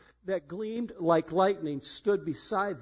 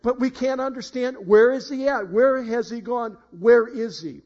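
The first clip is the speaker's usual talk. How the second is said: bewildered women; 5 semitones higher, 6 dB louder than usual. Retold or imitated. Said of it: "and they say".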